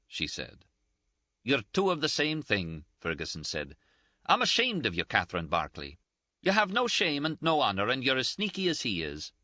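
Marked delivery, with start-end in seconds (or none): 1.4-9.3 high-pitched, indignant, close to tears; a reproachful friend near tears, voiced higher; Ferguson's scolding. A narrator's reading. Ferguson voiced, shaming Catherine.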